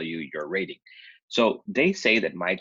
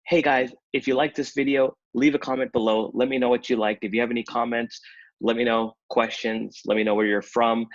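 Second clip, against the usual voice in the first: higher, brighter YouTuber pitch; upbeat sign-off; 4 semitones higher than usual. Retold or imitated. Vlogger quoting his own outro, higher and eager. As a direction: pump it up like a video outro.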